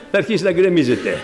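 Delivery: mock-serious advice that breaks into laughter; ironic mock advice. Preacher mocking the trumpet-physics man, laughing ironically. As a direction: tease him, laughing by the end. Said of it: "ειρωνεύομαι".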